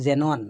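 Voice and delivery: teacher shows learners that "জেনন" starts with a J-like sound, demonstrated pronunciation; initial X as J. Shown as a demonstration. Teacher giving an example word, "জেনন" with J-like onset. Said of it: "এটাই উচ্চারণ হয় জর মতো".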